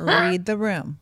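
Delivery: low, drawn-out repeat; slow retold rebuke. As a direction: let each word land slowly and firmly.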